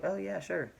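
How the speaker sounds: high-pitched imitation of a girl agreeing; mimicked high little voice; Pumpkin. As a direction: lift the pitch way up for her reply. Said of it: "Pumpkin was all like".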